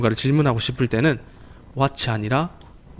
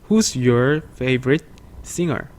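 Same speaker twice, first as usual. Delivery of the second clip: very slow, drawn-out words; slow pronunciation model; much slower than usual. Shown as a demonstration. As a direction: pronounce it slowly for students. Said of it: "약간 이런 발음으로 보시면".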